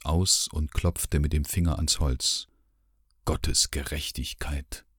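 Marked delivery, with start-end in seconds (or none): 3.2-4.9 rumbling growl. Acted. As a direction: let it rumble out slowly under the breath. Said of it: "Es klang grollend". (langsames, leises Grollen)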